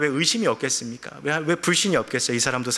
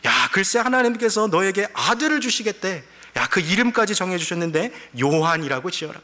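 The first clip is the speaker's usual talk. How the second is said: excited, higher-pitched good-news delivery; joyful angel voice; 5 semitones higher than usual. Acted. Angel telling Zechariah his prayer was heard, overjoyed. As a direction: break happy news like a thrilled messenger. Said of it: "즐겁고 기쁜 목소리로 전했겠죠".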